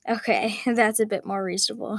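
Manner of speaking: amused, with a short laugh. Acted. Mom answering her daughter's smaller order, laughing lightly. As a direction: chuckle it out, relieved. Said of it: "her mom laughed".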